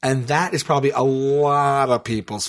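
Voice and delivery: measured, deliberate mock pitch; mock pondering. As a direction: pitch it as if musing aloud. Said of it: "And you were talking like this?".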